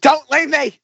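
high, drawn-out melodramatic wail; mock desperate plea. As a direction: beg slowly, hammed-up and high. Mocking the clip's melodramatic plea.

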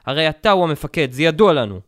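loud, forceful accusation; shouting. A narrator's reading. Schultz keeps yelling at Henry that he is the commander, loud. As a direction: keep yelling it in his face.

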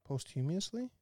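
"Posthumously" said as post-HUME-ee-us-lee, questioning; "Posthumously" with a long O and stressed HUME; mispronunciation. Real, not acted. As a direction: say "Posthumously" like "post" plus "humiously", rising. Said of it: "I've been saying it the wrong way".

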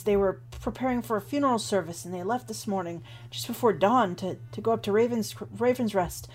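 a hint of a frightened acolyte retelling the attack; shaken young acolyte. GM voices Rufio telling his story.

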